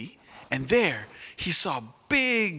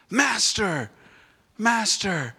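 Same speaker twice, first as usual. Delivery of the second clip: high, louder urgent call; 6 semitones higher, 4 dB louder, slower than usual. Acted. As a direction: call out as you run up. Messenger comes running.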